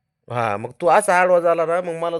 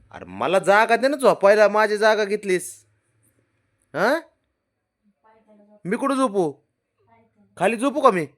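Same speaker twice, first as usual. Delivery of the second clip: higher, whiny pleading; mock whine; 8 semitones higher, 3 dB louder than usual. Real, not acted. Owner pleading with the dog for her spot, high whine.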